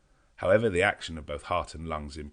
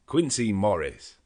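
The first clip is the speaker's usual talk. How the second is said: slow, louder glad call of a name; joyful outcry; glad cry; 5 semitones higher, 8 dB louder, slower than usual. A narrator's reading. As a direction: greet a friend with relief. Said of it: "as I cried out".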